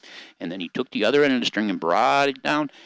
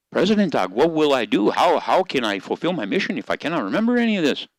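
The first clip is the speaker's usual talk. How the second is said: anxious Shaman Dog; 4 semitones higher than usual. Acted. Shaman Dog pleads with President Dog, raised anxious voice. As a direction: plead up high, afraid of forgetting.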